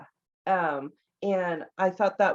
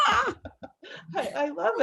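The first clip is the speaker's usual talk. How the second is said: much higher, giggly delight; delighted laughing; 12 semitones higher, much slower than usual. Real, not acted. Host loving the child's interruption, laughing. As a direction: squeeze the words out through laughter.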